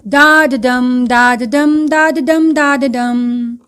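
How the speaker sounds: da da dum chanted in an even, unbroken beat; metrical rhythm demo. Shown as a demonstration. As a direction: run each "da da dum" into the next like a drumbeat, drawing out the last. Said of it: "Now see this example".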